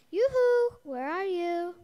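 sing-song yoo-hoo, called out high and loud; calling out. Acted. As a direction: call playfully across the garden. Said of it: "God called out to them".

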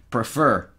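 Prefer with the first vowel almost gone, pfer; reduced vowel. Shown as a demonstration. Teacher blending prefer with no vowel. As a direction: swallow the e of Prefer. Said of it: "Suena muy similar".

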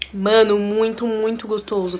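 words around food; talking while chewing. Real, not acted. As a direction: mouth partly full. Seen 0: Bite taken at -1.0; lips pursed while chewing during words.

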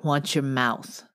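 slow it down and make it a threat; mild growled warning to Kyle. Acted. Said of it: "shoved him backwards and growled".

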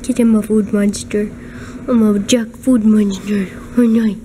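a hint of a greedy food monster; voicing the cat. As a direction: playfully speak for the hungry cat. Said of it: "He's like".

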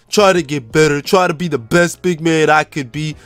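deep-voiced rookie big man, honored. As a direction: speak as the proud new team member. Plays his rookie big man.

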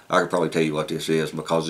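lips clenched around pipe stem; speaking around pipe mouthpiece; talking with pipe in mouth. Real, not acted. Seen 2: Pipe stem clenched in lips until 1.5, then removed.

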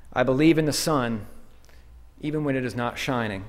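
measured recitation with pauses between lines; poem recitation. Acted. Preacher recites a poem from a ghetto wall, measured recitation. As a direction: let each line settle before the next.

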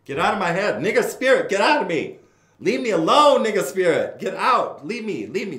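hammed-up cries to cast a spirit out; mock exorcism.

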